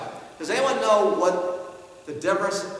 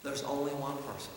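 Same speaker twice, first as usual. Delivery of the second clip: quiet emphatic repeat; 4 semitones lower, 9 dB quieter than usual. Retold or imitated. Father at the mirror, hushed emphatic words. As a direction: let the words sink in.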